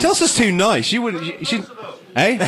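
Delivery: muffled through hands; face in hands. Real, not acted. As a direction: talk into your hands. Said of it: "It's talking into your hands".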